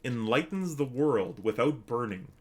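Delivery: slow, measured riddle recital; riddle reading. Acted. Streamer reading an archaic riddle to chat, slow recital. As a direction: pose the riddle slowly, line by line.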